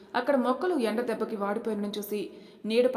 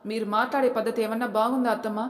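firm and louder, pressing the challenge; somewhat loud; 5 dB louder than usual. Acted. Daughter-in-law confronting mother-in-law, firmly louder. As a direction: raise the voice a notch at her. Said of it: "కాస్త గట్టిగానే అంది".

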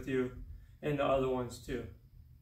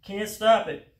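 louder strained words while trembling; shaking from strain; 5 semitones higher, 8 dB louder, slower than usual. Real, not acted. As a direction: say it through muscle shakes.

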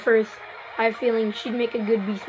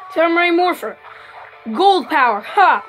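hero shout; 3 semitones higher, 4 dB louder than usual. Pretend. Morphing call in hero game.

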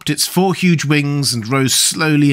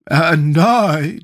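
loud, higher creature voice; Sawhorse's voice; 6 semitones higher, 5 dB louder than usual. A narrator's reading. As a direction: declare it loudly, pitched up. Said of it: "declared the Sawhorse".

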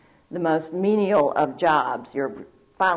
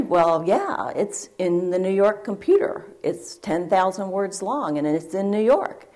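calmly; 3 semitones higher than usual. Retold or imitated. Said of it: "And I said calmly".

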